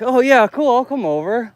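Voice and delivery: high eager imitation; shy guy imitated. Imitating the shy artist accepting, high eager. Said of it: "he looked all like".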